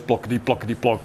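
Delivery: rhythmic low putt-putt of a motorbike; imitated engine chug. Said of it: "you get on the bike and it goes".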